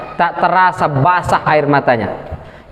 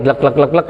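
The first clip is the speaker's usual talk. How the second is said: imitated gulping; 4 semitones lower than usual.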